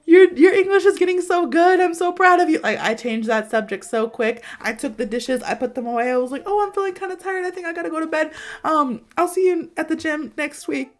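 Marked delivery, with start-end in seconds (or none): 0.0-2.6 high, loud, gushing fake praise; forced cheer. Embarrassed woman changing the subject to his English, frantically upbeat. 6.5-10.9 high-pitched acted politeness; fake breezy excuse. Embarrassed woman hurrying her crush out, strained breezy voice. Retold excuse to get him out.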